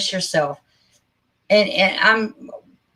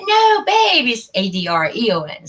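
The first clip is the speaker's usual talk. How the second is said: husband's correction; 3 semitones higher than usual. Retold or imitated. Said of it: "and he was like".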